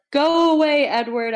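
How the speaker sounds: high loud yell, pushing him away. A narrator's reading. Bella yelling at Edward to go away, high and loud. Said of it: "I yelled at him".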